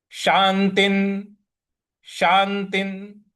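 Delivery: शांतिन with the शान stressed; slow teaching take of शांतिन; pronunciation demo. Shown as a demonstration. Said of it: "यहाँ पे थोड़ा सा बल लगाना है।".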